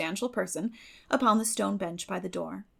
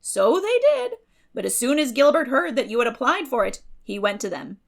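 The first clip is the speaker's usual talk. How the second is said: loud, much higher bustling gossip; hearty, opinionated neighbour, loud and high; Mrs Lynde's voice; 3 semitones higher, 7 dB louder than usual. A narrator's reading.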